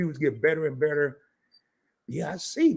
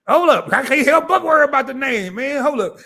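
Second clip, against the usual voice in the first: laughing through it; 10 semitones higher, 8 dB louder than usual. Real, not acted. Laughing fit, can't stop.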